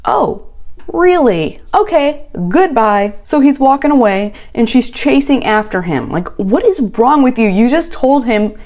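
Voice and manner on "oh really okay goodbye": mock surprise. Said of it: "He's like".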